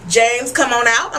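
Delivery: ordinary talk, nothing marked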